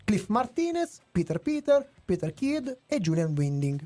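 measured scripted reading over background music; review read. Acted.

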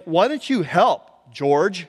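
pointed, exasperated appeal; mock irritation, drawn out; irritated. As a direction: needle a useless friend slowly. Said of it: "you can hear the irritation in their voice".

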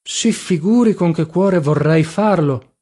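slow, sorrowful protest; deeply pained. A narrator's reading. Papiano refusing to act as second, deeply pained. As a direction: draw it out with heartfelt regret. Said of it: "aprì le braccia addoloratissimo".

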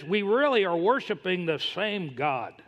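slow, lightly slurred insistence; imitated drunk man. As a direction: play him mildly tipsy, dragging the words. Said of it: "he was kinda drunk".

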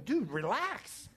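slow, high, laughing plea to calm down; half-laughing, easing off the pushy fan; laughing "relax". Retold or imitated. Preacher to the pushy fan beside him, slow and laughing. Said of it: "and I'm going".

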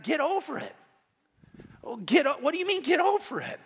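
can't believe what he just heard; incredulous outcry. Retold or imitated. Pastor's incredulous reaction to mom.

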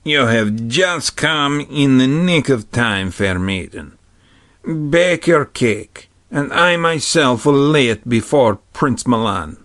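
a cook answering with sudden politeness; polite. Acted. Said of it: "he answered politely".

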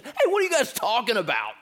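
high, quick prompting; voicing Jesus. Jesus prompting disciples to talk, high and light. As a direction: nudge them to open up. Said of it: "prompting them".

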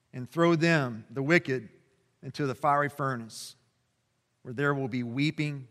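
measured, solemn public reading of scripture. Acted. Pastor reading Jesus' words to the congregation, solemn reading. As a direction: read the passage aloud to the church with weight.

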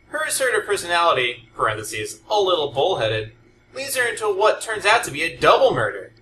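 hammed-up dramatic book-review read; mock dramatic reading. Shown as a demonstration. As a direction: read it like a melodramatic narrator. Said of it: "Allow me to do a dramatic reading".

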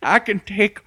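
put-on high, slow old crone voice; cackling toothless hag bragging; old lady voice. Esther brags toothless.

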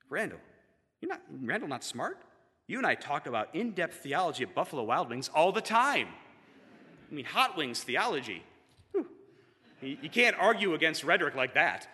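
lightly imitated easygoing friend; playfully incredulous reassurance over a meal; a hint of a happy friend talking while eating; Aaron. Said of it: "in that happy, monotone voice while eating hot wings".

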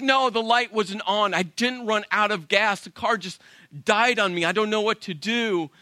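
mildly worked-up mock protest; flustered insistence. Stranded wife insisting to husband, flustered.

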